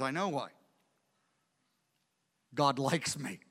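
low, soft, simple confidence; quiet assurance. Acted. David answers the reporter's question, quietly sure. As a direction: answer quietly, letting it land.

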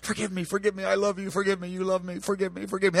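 softly mimicking a fearful believer's endless plea for forgiveness; mock timid pleading. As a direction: murmur it like a cowed, guilty prayer. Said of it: "with a spirit of rejection and condemnation".

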